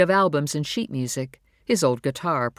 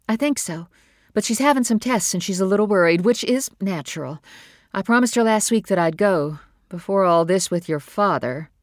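higher, louder, quick worried explanation; worried mother; 5 semitones higher, 4 dB louder than usual. Acted. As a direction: rush through it, masking worry.

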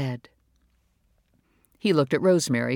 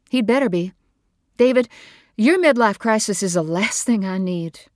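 higher, louder bitter voice; bitter outburst; 6 semitones higher, 6 dB louder than usual. Acted. Wife lashing out at her husband's crisis, loud and bitter. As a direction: throw the words at him.

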